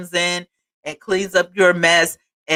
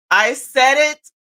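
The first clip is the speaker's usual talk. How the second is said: put-on higher-pitched African accent; African cousin's accent; 7 semitones higher, 3 dB louder than usual. Speaker quoting herself as her African cousin, African accent. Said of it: "in my African cousin's voice".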